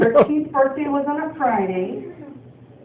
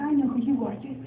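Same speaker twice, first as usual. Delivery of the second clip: put-on small kid's voice; 4 semitones higher, 4 dB quieter than usual. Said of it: "little tiny kids were like".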